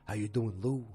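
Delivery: lightly voiced impression of a politician husband; Henry Francis. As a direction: put on a mild husband impression. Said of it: "This is how he talks".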